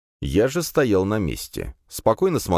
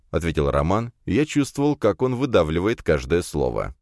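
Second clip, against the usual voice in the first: plain reading voice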